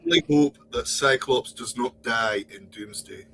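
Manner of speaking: hammed-up Scottish echo; butchered Scottish accent. Friend echoing the Cyclops fan's hope, mock Scottish accent. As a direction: copy it in a bad Scottish accent. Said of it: "I'm gonna butcher your accent".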